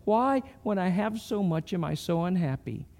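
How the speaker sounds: lightly acted plaintive wondering; wondering aloud. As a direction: voice someone's private, unhappy questioning. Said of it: "when you're wondering".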